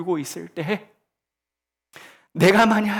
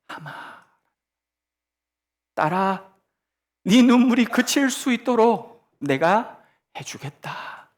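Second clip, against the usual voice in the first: tender Jesus voice. Acted. Voicing Jesus to the widow.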